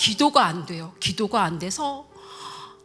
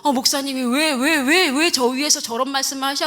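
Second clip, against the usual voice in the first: retold indignant protest, getting louder; angry grumbling; 4 dB louder than usual. Wife imitating husband protesting the sermon, angry grumbling. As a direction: mimic an irritated husband, repeating the why. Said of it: "막 화가 나가지고".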